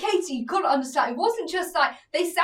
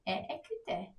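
French phrase; 4 semitones lower, 7 dB quieter than usual. Shown as a demonstration. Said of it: "I've got a great one for you".

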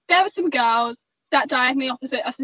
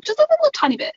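sweet polite ask; 13 semitones higher, 3 dB louder, faster than usual. Retold or imitated. Polite request to loud passengers.

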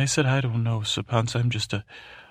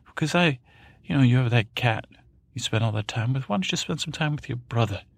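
Joff putting on charm; 3 semitones higher than usual. Acted. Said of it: "And he said".

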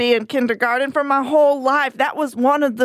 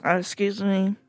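whispering; 6 semitones lower, 6 dB quieter than usual. Real, not acted. Aside while drinking soup on air.

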